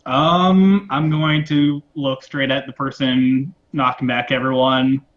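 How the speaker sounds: normal talking voice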